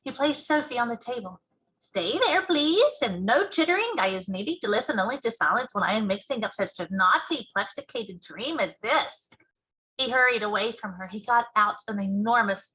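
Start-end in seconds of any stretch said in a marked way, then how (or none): 1.8-9.3 a lightly voiced friendly giant, fussing; BFG giant voice. Giant asks Sophie for silence, lightly voiced giant.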